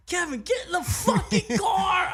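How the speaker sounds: shouting. Retold or imitated. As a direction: bark it from the car. Friend yelling from the car.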